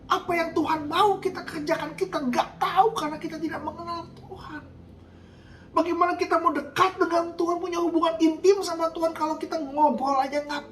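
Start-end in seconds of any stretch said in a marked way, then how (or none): 0.1-9.3 raised, driving sermon delivery; fiery preaching. Acted. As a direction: preach it hard to the congregation. Preaching at full force.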